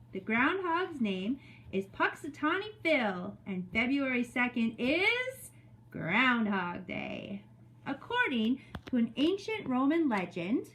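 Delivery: measured, expressive story reading; read-aloud to children. Acted. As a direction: read it to a class of young children. Reads story to second graders.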